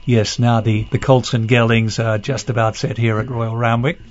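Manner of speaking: a light imitation of a smooth on-air race call; mock announcer polish, understated; beautiful ABC voice. Imitating the race caller switching back to on-air polish, lightly. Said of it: "that beautiful".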